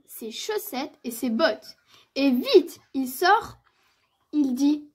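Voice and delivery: measured, articulate storytelling with lively emphasis; children's story narration. A narrator's reading. Narrator telling of Petit ours brun's snowy morning, story-reading voice. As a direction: read it aloud for small children.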